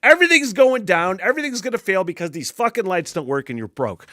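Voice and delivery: loud, high catastrophizing rant; mock dread. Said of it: "that dread thing sinks in".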